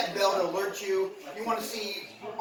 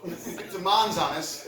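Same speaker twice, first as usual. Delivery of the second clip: laughing; slower than usual. Real, not acted. Laughing at own joke.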